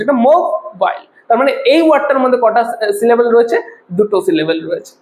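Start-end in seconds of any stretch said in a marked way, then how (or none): 0.1-1.1 মোবাইল slowly in two parts, mo, bail; split into syllables. Shown as a demonstration. Teacher pronouncing the word in two parts, split by syllable. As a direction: pause between mo and bail in মোবাইল. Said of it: "তখন আমরা দুটো ভাগে".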